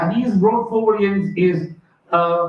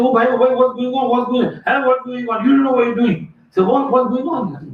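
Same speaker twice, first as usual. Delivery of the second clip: alarmed protest; 5 semitones higher than usual. Retold or imitated. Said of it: "And Junaid said".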